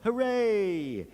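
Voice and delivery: mock Icelandic accent cheer. Shown as a demonstration. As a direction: show the crowd how to cheer Icelandic-style. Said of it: "in an Icelandic accent".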